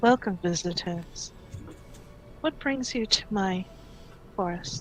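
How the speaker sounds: breathy whisper in a unicorn voice. Voicing a unicorn greeting visitors telepathically: unicorn voice. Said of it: "you hear this voice in your head speaking Celestial".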